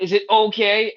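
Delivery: high anxious fretting voice; worried onlooker. Retold or imitated. Onlookers nervously watching a kid get a shot, high worried fretting. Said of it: "everybody else is like".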